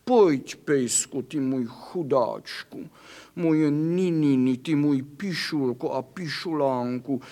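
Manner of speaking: coaxing, pet-name cooing to a hurt puppy; tender comforting. Acted. Kitty coaxes the injured doggy home, tenderly cooing. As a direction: soothe the little dog like a mother.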